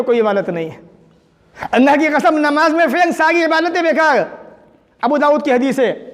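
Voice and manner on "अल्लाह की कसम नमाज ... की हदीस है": high, forceful warning; emphatic preaching. Real, not acted. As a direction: swear it to the congregation with raised voice. (जोश से चेतावनी)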